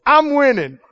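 bloodied boxer grinning defiant; grinning fighter. Retold or imitated. Beaten fighter grins up from the ropes, defiant. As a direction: grin through the blood. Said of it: "grin and go".

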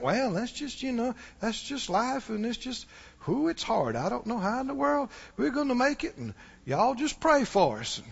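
resigned complaint. Retold or imitated. Churchgoers grumbling about hard times, soft and defeated. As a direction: let it sag like you've given up. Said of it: "They think".

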